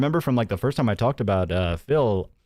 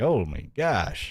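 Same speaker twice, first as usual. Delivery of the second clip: put-on whiny, childish baby voice; 4 dB quieter than usual. Imitating his whining, which comes through even in the baby voice: imitating whining. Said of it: "his whining is just like".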